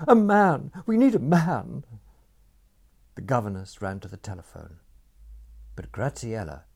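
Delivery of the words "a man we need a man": high, loud urgent commands; ordering. A narrator's reading. Aunt ordering the household, loud and urgent. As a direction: bark orders in a panic. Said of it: "Gerda ordered".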